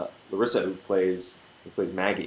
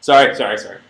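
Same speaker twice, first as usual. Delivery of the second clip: mock Canadian accent; 8 dB louder than usual. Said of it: "Making fun of my Canadian accent again".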